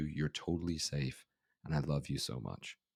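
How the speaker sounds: ordinary delivery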